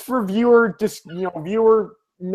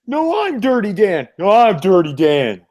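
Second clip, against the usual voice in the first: mock-insistent cartoon quote; cartoon squabble imitation; 3 semitones higher than usual. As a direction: bicker like two cartoon rivals. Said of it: "SpongeBob reference".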